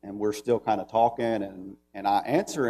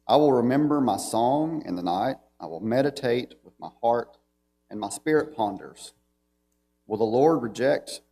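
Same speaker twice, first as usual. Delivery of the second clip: measured, solemn reading of the psalm; scripture reading. Acted. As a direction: read it out as holy text to the church. Reads psalm aloud to congregation.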